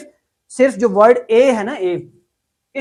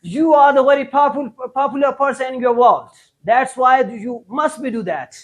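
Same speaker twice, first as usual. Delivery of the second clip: mock broken English; 2 semitones higher, much slower than usual.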